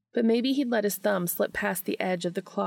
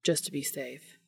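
low, soft, fast come-on; seductive Dean; 4 semitones lower, 5 dB quieter than usual. A narrator's reading. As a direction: coax him to check your temperature. Dean flirting, voiced in story.

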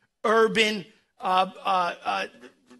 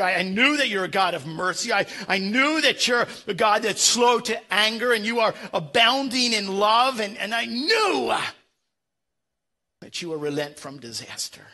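sulky Jonah; 2 semitones higher, 5 dB louder than usual. Retold or imitated. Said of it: "he says".

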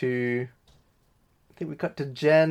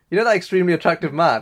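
quick, higher and louder mock of the phrase; incredulous parody of the line; mocking quote; 4 semitones higher, 5 dB louder, faster than usual. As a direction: sneer it back as if no one would ever say that. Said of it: "and go".

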